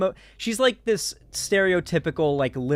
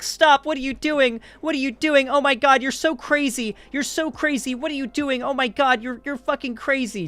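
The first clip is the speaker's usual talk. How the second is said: much higher, hammed-up hysterical girlfriend; shrill girlfriend voice; 11 semitones higher than usual. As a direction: squeal it like a panicking girlfriend, way up high. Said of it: "the girlfriend's like".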